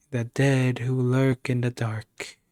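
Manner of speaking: slow, solemn chant; solemn incantation. A narrator's reading. Possessed girl summoning a spell, slow solemn chant. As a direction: intone it slowly and evenly. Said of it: "Quietly and solemnly".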